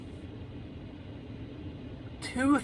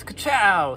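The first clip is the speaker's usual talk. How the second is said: punchy spoken strike noise, pitched up; mock sting sound; 4 semitones higher, 4 dB louder than usual. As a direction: make a playful sting sound effect. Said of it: "and the scorpion goes".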